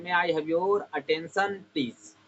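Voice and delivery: very slow, every word stretched; slow model sentence. Shown as a demonstration. Teacher slowly models asking for attention. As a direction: lay each word out slowly for learners. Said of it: "इस प्रकार से बोल सकते हैं".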